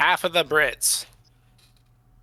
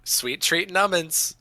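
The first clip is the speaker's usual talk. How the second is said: high, slow cutesy voice; baby talk; 6 semitones higher than usual. Pretend. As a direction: savor it like a treat. Cutesy repeat of silly phrase.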